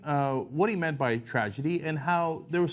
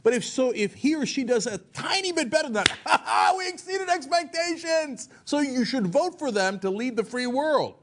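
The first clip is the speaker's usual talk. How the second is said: mock campaign strategist; 5 semitones higher than usual. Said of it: "this is the Bush model".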